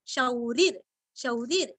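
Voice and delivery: शौरिर with full long औ; slow, deliberate शौरिर; careful pronunciation. Shown as a demonstration. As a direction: give the औ in शौरिर its full two-mora length. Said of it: "शा के ऊपर दो मात्रा की उच्चारण अच्छे से करना".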